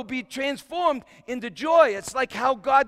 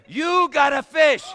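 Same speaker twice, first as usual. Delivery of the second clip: jolly Jesus; 6 semitones higher, 7 dB louder than usual. Retold or imitated. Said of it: "He was laughing and laughing".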